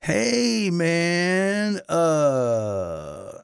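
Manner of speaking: slow, spaced-out, drawn-out words; dazed stoner voice. Retold or imitated. Producer on the phone sounding dazed and slow. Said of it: "I hear Toby go like".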